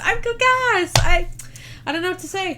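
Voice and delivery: a hammed-up cartoon announcing its name; silly mock character. Keeps the gas joke going.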